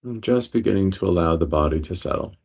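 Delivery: steady meditation guide, long pauses between phrases; guided meditation. Real, not acted. Teacher guiding listeners into breath awareness, guided meditation. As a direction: guide them calmly, leaving space after each phrase.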